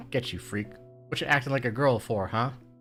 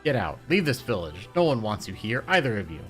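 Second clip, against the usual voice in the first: shouted threat; 7 dB louder than usual. Acted. Boy yelling threats.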